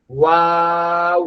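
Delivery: ওয়াও slow, lips fully rounded; rounded-lip waw. Shown as a demonstration. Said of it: "এরকম". (ঠোঁট গোল করে ওয়াও)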